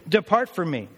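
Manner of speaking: emphatic retold dismissal; mildly forceful biblical command. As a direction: order them off with firm conviction. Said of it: "With all the emphatic Hebrew".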